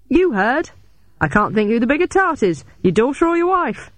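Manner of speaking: high-pitched goading retort; taunting yell. A narrator's reading. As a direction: hurl the insult to provoke him. Yelled taunt at the father.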